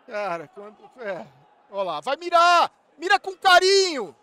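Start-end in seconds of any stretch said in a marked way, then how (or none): 1.7-4.1 high, loud plea to the shooter; real fan scream; urgent shouting. Real, not acted. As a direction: yell it across the pitch. Urging the shooter to aim.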